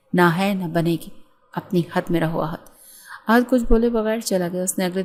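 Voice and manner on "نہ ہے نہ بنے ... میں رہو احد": a hint of a stern mother; cold and firm, shutting him down; stern, hard voice. Mother silencing her son, lightly voiced stern. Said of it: "Nadia کی آواز میں سختی آ گئی".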